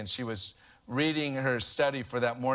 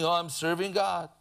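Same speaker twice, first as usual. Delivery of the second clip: mock mourning; 3 semitones higher than usual. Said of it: "like people in mourning".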